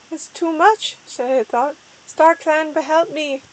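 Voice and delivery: a hint of a weird, pleading character. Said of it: "such a weird voice".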